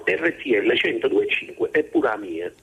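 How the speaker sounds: light Neapolitan accent, said proudly; a touch of Neapolitan accent. Shown as a demonstration. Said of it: "io lo dico in napoletano".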